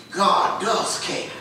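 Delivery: soft, slow, breathy answer; hushed assurance. Real, not acted. Preacher answering the congregation, soft and slow. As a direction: drop to a reassuring hush.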